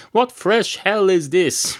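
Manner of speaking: weary barman groan. Acted. Barman reacts to deodorant.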